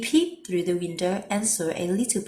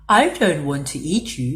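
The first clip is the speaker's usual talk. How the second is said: sniffed; 3 semitones lower, 5 dB louder than usual. A narrator's reading. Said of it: "sniffed Big Bad".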